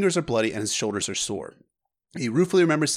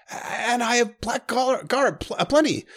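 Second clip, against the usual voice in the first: eager daydream; 11 semitones higher than usual. Acted. Prince brightening as he pictures life on the Wall. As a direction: voice lifting higher with eager hope.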